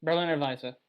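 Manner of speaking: "Berliner Weisse" with a German v, VY-suh; German pronunciation. Shown as a demonstration. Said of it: "that's how they say it in its native language".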